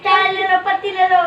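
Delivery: mimicking a tea hawker calling out; vendor call. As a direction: call out wares like a street seller. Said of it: "इसका गाती है".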